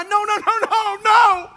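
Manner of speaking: high loud repeated no; emphatic no. Acted. Preacher rejects the idea.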